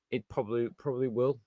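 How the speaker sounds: softly, almost under the breath; quiet resignation. Real, not acted. Admitting to viewers a sad prediction, quietly resigned. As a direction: let "probably will" drop away quietly. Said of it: "I know it sounds kind of sad thing to say".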